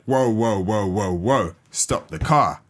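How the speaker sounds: alarmed whoa. Retold or imitated. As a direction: pretend to yell whoa at a driver. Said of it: "she's just like".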